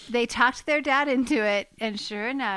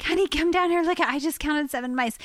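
higher-pitched retold call to a husband; mildly alarmed summons, pitched up; urgent calling; 6 semitones higher than usual. Wife calling husband down to see the mice, urgent.

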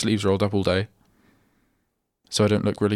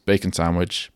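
ordinary talk

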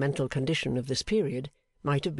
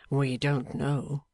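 in pain; much slower than usual. Acted. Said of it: "almost in the tone of a man in pain".

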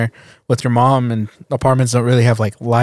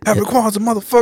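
laughing repeat; 7 semitones higher, faster than usual. Acted. Friend echoing the story's punchline, laughing. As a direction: giggle the line back.

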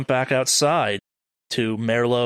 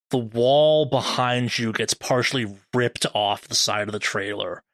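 measured, ominous scene setting; game master narration; 3 semitones lower, slower than usual. Acted. Game master describes a creature behind the player, ominous narration. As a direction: draw out the horror at the end.

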